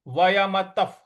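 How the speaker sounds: वयमतः with a final f; visarga said as f. Shown as a demonstration. Teacher models वयमतः with the visarga as f before प. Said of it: "उसका उच्चारण हमें फ ले आना है".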